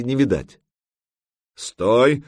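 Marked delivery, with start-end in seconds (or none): 1.6-2.2 loud, raised order to halt; commanding. A narrator's reading. Ярл ordering the raft to stop, commanding. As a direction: call it out as a leader's command. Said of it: "скомандовал Ярл".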